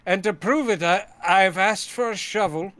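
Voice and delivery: lightly hammed-up actor as host; James Mason. Host asking for a shovel at the grave, mock James Mason. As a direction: present it like an old film star. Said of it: "Mason impressions".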